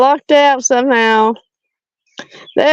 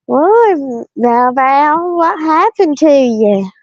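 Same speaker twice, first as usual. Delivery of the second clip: lightly mocked sister, higher pitch; a drawn-out, swooping mock question; imitating sister; 3 semitones higher, slower than usual. Sister seeing how she has aged, lightly imitated higher voice. Acts out sister's shocked remark on looks.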